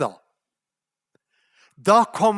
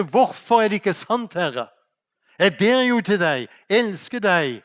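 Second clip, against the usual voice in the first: ordinary talk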